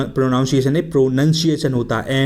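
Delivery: प्रोनंसिएशन said with nun, not noun as in प्रोनाउंसिएशन; correct pronunciation. Shown as a demonstration. Teacher corrects the spelling sound for students. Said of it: "आपको पता होगा".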